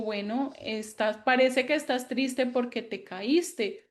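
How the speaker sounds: put-on tender parent consoling a crying child; gentle comforting. Shown as a demonstration. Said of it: "pues le digo".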